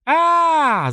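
loud, high scream of pain. Acted. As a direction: howl as the finger snaps back. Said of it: "завопила он". (громкий высокий вопль боли)

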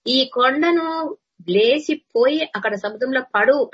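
preacher commanding a mountain. Acted. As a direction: order the rock away with authority.

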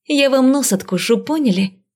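high-pitched feisty threat; bloodthirsty. A narrator's reading. Heroine warning the lord off, bloodthirsty. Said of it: "Я не менее кровожадно оскалилась".

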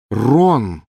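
loud sharp call. A narrator's reading. Hermione stopping Ron, loud sharp call. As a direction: cut through the rain noise. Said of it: "перекрыв голосом шум дождя".

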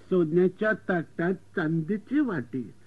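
put-on slow, sing-song old-style recital; mother-in-law's couplet. Mother-in-law recites her wedding couplet, slow and sing-song. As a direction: chant it like a traditional bride. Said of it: "सासूबाईंनी उखाणा घेतला होता".

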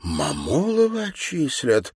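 slow, puzzled question; disbelieving; bewildered. A narrator's reading. Anna hears of the expulsion, bewildered. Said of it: "недоуменно".

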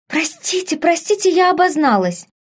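a touch of contrite fluster; penitent. A narrator's reading. Aphrodite apologizing to a stranger, high and mildly penitent. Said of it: "покаянно поступилась".

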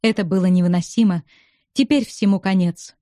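ordinary delivery

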